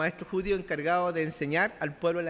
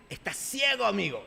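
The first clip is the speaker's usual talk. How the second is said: blunt rebuke. Retold or imitated. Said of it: "en pocas palabras".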